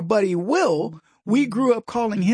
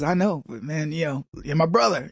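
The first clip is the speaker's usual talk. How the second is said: friend's reassurance; 3 semitones lower than usual. Retold or imitated. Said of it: "He goes".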